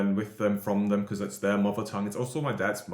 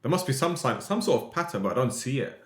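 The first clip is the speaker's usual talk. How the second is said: higher-pitched retold bafflement; retold puzzlement; 5 semitones higher than usual. Learner recalling grandparents' confusing verb lessons, retold puzzlement. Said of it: "and I was like".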